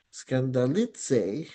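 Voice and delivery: "Skandalitse" very slowly, lifted on "li"; careful teacher's "Skandalitse" peaking on "li"; stress on LI. Shown as a demonstration. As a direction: draw out "Skandalitse" and accent the "li". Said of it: "sa li yung, yung, um, accent".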